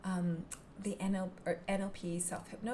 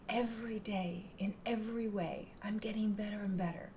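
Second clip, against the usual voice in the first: whispered mantra. Shown as a demonstration. Teacher whispering the self-hypnosis mantra to herself. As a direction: murmur the mantra to yourself. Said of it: "like the mantra".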